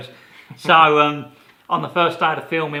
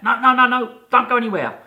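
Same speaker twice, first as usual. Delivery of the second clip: high, loud frantic no no no; urgent excitement; 11 semitones higher, 9 dB louder than usual. Retold or imitated. Woman begging Chris to stay put, frantic and high. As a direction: stop him from leaving, all worked up.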